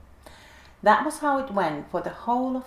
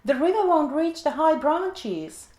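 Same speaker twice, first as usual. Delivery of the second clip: much higher, louder urgent squawk; a cockatoo urging them to hurry; squeaky cockatoo; 8 semitones higher, 5 dB louder than usual. A narrator's reading. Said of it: "squeaked the cockatoo".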